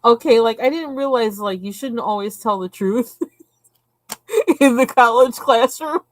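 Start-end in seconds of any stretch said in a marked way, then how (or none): 3.9-6.1 high giggles breaking up the words; giggling at her own college blunder; laughing. Real, not acted. Telling viewers about the classroom while giggling.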